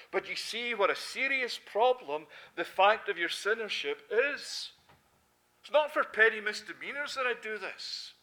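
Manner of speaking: lightly voiced God, loud and earnest; a hint of God pleading his case, loudly; God speaking. Preacher voicing God to the congregation, loud and earnest.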